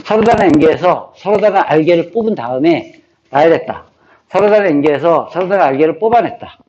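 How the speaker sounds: formula drilled phrase by phrase; rote recitation. Shown as a demonstration. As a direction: recite it evenly as if memorizing. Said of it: "이렇게 자꾸 이렇게 쓰면서 외우는 거예요". (암기하듯 구절마다 또박또박 읊기)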